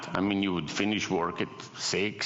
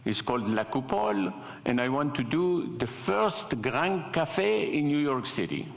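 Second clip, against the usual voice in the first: put-on French accent; 3 semitones higher than usual. French gentleman pitching a restaurant concept, mock French accent. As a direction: play a Frenchman unveiling his idea in accented English. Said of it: "in this really thick French accent".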